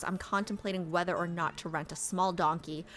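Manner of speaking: measured read-aloud voice; lightly performed game narration; story narration. A narrator's reading.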